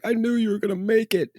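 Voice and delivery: a touch of a tearful dad; teary proud dad. Retold or imitated. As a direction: mimic a crying father. Crying dad quoted.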